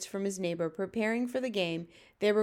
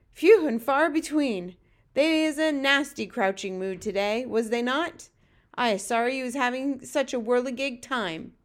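slightly raised friendly giant, relieved; lightly voiced BFG; 3 semitones higher, 4 dB louder than usual. Voices the BFG after escape.

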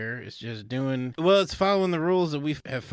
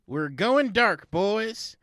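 hyped rally cry; 8 semitones higher than usual. Acted. Campaign manager rallying the team, rising rally voice.

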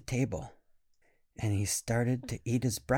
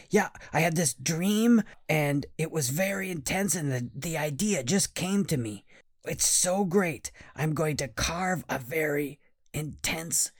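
put-on eager boy; 4 semitones higher than usual. Boy rambling about his dream.

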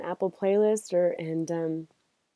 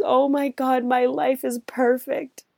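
higher, slow, dreamy wonder; blissed-out patient; 6 semitones higher, 4 dB louder, slower than usual. Retold or imitated. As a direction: sigh it out like pure bliss. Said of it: "he actually goes".

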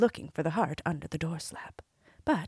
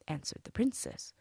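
ordinary delivery, nothing marked

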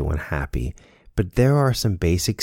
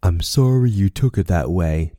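non-apology; 3 dB louder than usual. Shown as a demonstration.

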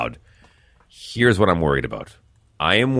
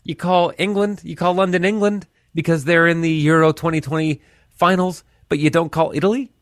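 higher, mock indignant Italian fan voice; mock texter complaint; 10 semitones higher than usual. Host imitating annoyed Italian listeners' texts, mock whine. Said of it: "texted me yesterday that said".

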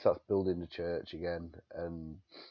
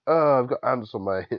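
loud, high outburst of mock dismay; retold yelp of alarm, breaking into laughter; mock alarmed cry; 7 semitones higher, 12 dB louder than usual. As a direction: cry out in comic panic, imitating the character. Retold cry over ants on body.

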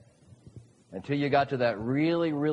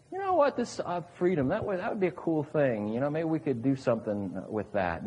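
mock casual idea. Preacher mocking God as merely having an idea, offhand and casual. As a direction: shrug it off like a half-formed idea. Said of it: "It doesn't say that the Lord had this idea".

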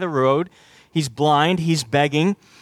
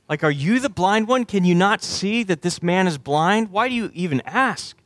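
higher-pitched mock disbelief; incredulous; 3 semitones higher than usual. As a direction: challenge him as if it were obvious. Incredulous challenge to Jesus' question.

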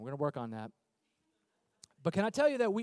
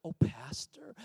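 put-on proper churchgoer, a little lower; mock proper; 5 semitones lower, 3 dB quieter, slower than usual. Churchgoer who just found out he's a pastor, mock proper. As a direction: greet the pastor with exaggerated propriety. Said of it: "they're proper".

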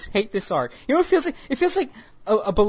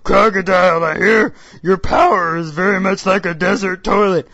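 mock wooden Jinbei; 6 dB louder than usual. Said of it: "mock Jinbei line".

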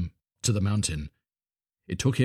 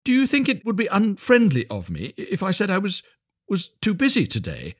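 high, hesitant little voice; shy, timid; 11 semitones higher than usual. A narrator's reading. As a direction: ask timidly, high and halting. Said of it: "in a shy, timid voice".

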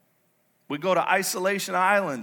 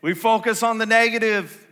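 loud, raised-pitch proclamation; forceful pulpit declaration; emphatic preaching; 6 semitones higher, 7 dB louder than usual. Real, not acted. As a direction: drive the point home to the congregation. Preacher hammers the repeated point.

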